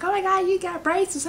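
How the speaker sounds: high-pitched nosy amazement; mock surprised exclamation. Imitating people noticing the braces, high mock surprise.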